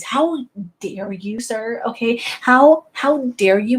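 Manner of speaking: slow, offended emphasis; mock indignation. Zelda fan scolding someone over Link, slow mock indignation. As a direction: draw out each word as if insulted.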